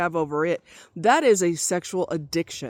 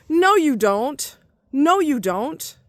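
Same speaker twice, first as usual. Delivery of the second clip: higher, louder, slow no; emphatic denial; 5 semitones higher, 4 dB louder, much slower than usual. Real, not acted. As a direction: spell it out slowly and firmly. Emphatic rebuttal.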